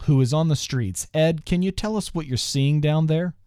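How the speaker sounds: formal TV news read; deadpan anchor delivery. Acted.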